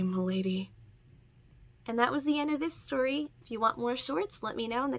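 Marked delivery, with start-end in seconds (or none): 0.0-0.7 whispered. A narrator's reading. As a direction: breathe the word milady as a whisper. Chat's tender reply.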